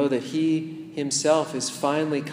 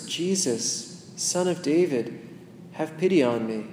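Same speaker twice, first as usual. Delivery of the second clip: inner plea. Shown as a demonstration. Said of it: "imagine yourself saying those words".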